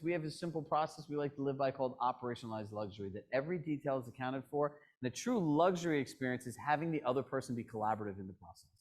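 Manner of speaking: rattled off quickly, then trailing; a rushed sales pitch; fast pitch. Shown as a demonstration. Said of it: "they're gonna say".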